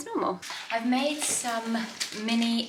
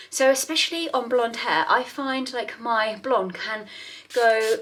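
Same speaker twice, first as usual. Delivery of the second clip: out of breath from running upstairs; panting a little after the stairs. Real, not acted. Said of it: "I'm out of breath because I've just run up the stairs".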